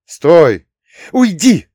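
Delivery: very high, loud bark; girl barking, high and loud. Acted. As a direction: snap it at him. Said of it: "рявкнула она".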